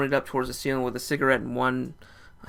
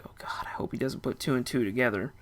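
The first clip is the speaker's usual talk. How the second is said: whispered, much softer private thought; inner whisper; 8 dB quieter than usual. Retold or imitated. Narrator privately fears his friend will connect the dots, whispered. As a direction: hush it as if thinking to yourself. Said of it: "in the back of my head".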